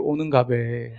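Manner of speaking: offhand Gyeongsang dialect imitation. Locals leaving a newcomer be, offhand Gyeongsang dialect. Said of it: "경상도 사투리로".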